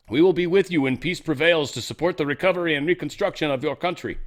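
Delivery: hammed-up Irish prime minister voice; failed Irish accent. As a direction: attempt an Irish accent and miss. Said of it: "that's not even close to an Irish accent".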